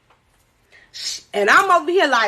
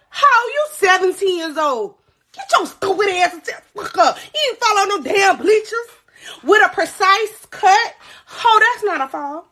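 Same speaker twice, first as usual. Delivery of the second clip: higher, lightly acted scolding; a hint of a mother telling off a liar; imagined scolding mother; 5 semitones higher than usual. Mother answering the bleachers lie, mock scolding.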